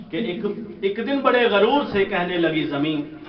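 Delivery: measured recital of verse for a gathering; poem recitation. Acted. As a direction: recite the couplet, lingering on key words. Recites couplets to audience.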